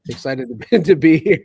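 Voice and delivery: glitchy robot voice over a bad line; distorted robot voice, bad connection. Real, not acted. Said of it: "didn't mean to do the robot voice".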